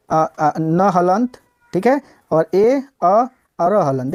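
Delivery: न हलंत and र हलंत slowly split into sounds; sounding out. Shown as a demonstration. Teacher breaking स्नेयर into sounds. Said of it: "इसको तोड़ के देखें".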